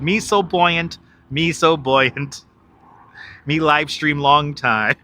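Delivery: slow, lightly put-on movie line; parody movie quote. Streamer showing viewers his changed movie words, lightly mimicked quote. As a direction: quote it slowly with reworded punchline. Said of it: "But I changed the words. I changed the words. I said".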